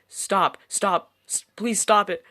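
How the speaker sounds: high, loud begging scream; terrified pleading. Acted. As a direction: scream at them to stop. Victim screams in the background.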